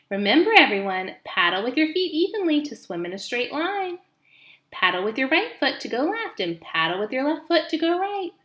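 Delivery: high, bright goose teacher; rally the goslings like a cheerful old goose; instructing old goose. Acted.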